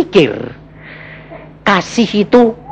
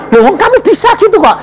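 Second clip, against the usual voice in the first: laughing. Retold or imitated. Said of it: "Aku bilang".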